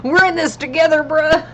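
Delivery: laughing. Real, not acted. Laughing at red-light story.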